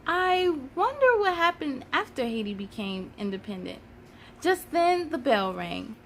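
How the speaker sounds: put-on reading a children's book aloud, lively; story narration. Storyteller reading a history picture book to children, lively. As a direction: read it like storytime for kids.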